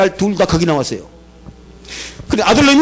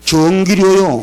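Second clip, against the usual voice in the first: slow, unbothered answer; cheeky son answering slowly; deadpan slow reply; much slower than usual. Retold or imitated. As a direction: drag it out calmly. Son's calm deadpan answer.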